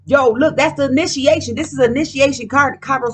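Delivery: fired up at a discovery; excitedly pointing it out; getting lit. Real, not acted. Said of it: "Yo, I'm getting lit".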